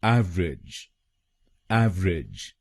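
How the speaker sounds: एवरेज with the weight on एव; stress on first syllable. Shown as a demonstration. Teacher stresses the first syllable for students. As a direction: lean on एव in एवरेज. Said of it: "पहले शब्दांश पर जोर डालना है".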